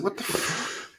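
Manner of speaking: breathy whispered what the fuck; whispered disbelief. Retold or imitated. Waking in a dinghy among skunks, whispered disbelief. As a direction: mouth it in hushed shock. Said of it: "I said".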